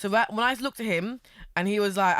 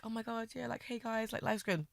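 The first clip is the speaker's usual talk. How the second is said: mock casual; 3 semitones higher, 10 dB quieter than usual. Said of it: "I'm like".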